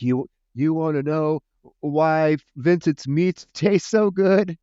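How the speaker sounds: put-on slow, slurry conspiratorial drunk lean-in; tipsy Ida. Drunk Ida leaning to Terry, slow and secretive. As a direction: confide like a tipsy aunt. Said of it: "Ida's almost three sheets to the wind".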